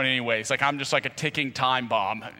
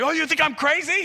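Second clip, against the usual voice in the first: high, loud indignant retort; offended retort; 13 semitones higher, 3 dB louder than usual. Retold or imitated. Showing how a hothead answers being called crazy. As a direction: throw it back, offended.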